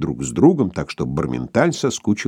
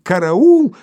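high strangled cry for help; attempted cry; 12 semitones higher, 6 dB louder than usual. A narrator's reading. Sharikov tries to cry for help with a throat held, strangled. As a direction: try to yell but choke it. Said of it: "попытался крикнуть".

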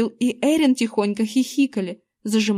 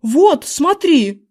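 loud, higher, slow insistent; excited pointing; 5 semitones higher, 6 dB louder, much slower than usual. A narrator's reading. Husband pointing at tomatoes for his wife, loud and excited. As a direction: point it out, amazed.

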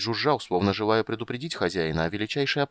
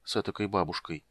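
whispered; 5 dB quieter than usual. A narrator's reading. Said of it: "прошептал Стурм".

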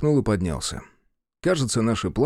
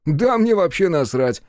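shrugging off; 8 semitones higher, 4 dB louder than usual. A narrator's reading. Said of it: "пожал плечами он".

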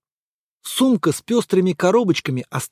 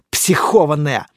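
excited jeer; 4 semitones lower than usual. Acted. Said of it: "возбуждённо бросил один из парней".

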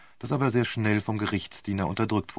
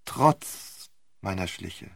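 mocking echo; 2 semitones lower, much slower than usual. Romain repeats his words slowly.

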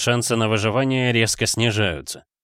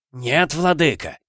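fearful plea; 4 semitones higher, slower than usual. Acted. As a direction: beg for mercy. Дэн испуганно оправдывается. (испуганная мольба)

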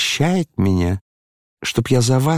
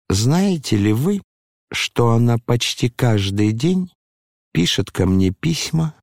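ordinary delivery

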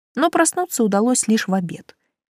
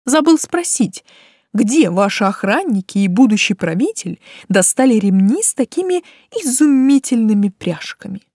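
calling after; 3 semitones higher, 4 dB louder than usual. A narrator's reading. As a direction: call the question after them. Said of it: "крикнул вдогонку Талан". (кричит вдогонку, повысив голос)

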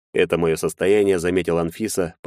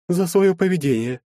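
lightly voiced young woman; 11 semitones higher than usual. A narrator's reading. Anfisa apologizing to Maxim, higher girlish voice. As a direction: play the shy girl saying sorry.

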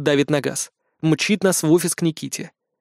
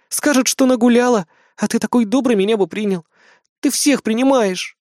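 mildly hammed-up pleading woman; 7 semitones higher than usual. A narrator's reading. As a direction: whine out her excuses. Anna's confession voiced.

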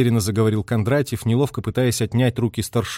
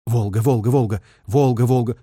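radio operator's repeated chant; rhythmic, clearly spoken signalman's call; distinct call-sign calling. A narrator's reading. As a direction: enunciate the call sign insistently. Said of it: "торопливо и отчётливо выговаривал позывные".

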